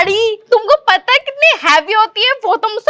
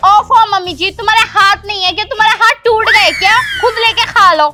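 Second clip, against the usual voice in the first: rude retort; 3 semitones higher than usual. Acted. Daughter-in-law snaps at mother-in-law. (सास को ऊँची आवाज़ में चिढ़ाकर जवाब देती बहू)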